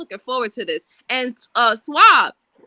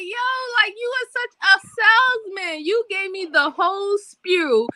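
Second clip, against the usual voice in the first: higher-pitched retold protest; mock-exasperated mother; 5 semitones higher than usual. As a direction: protest in playful disbelief at the kid's pitch. Mother retells protesting to son.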